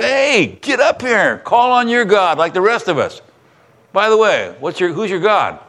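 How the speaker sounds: high, urgent sailor's call; sailors waking Jonah. Retold or imitated. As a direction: rouse a sleeper and demand his god.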